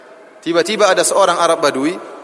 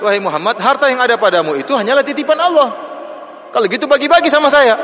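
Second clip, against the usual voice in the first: rude demand; 6 semitones higher than usual. Retold or imitated. Rude Bedouin demand re-voiced. (nada kasar menuntut, tinggi dan keras)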